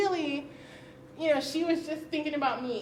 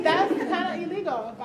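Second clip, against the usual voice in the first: says it through a laugh, slowed; half-laughing disbelief; laughing it out slowly; 5 semitones higher, 7 dB louder, slower than usual. Real, not acted. Retelling her reply to dad.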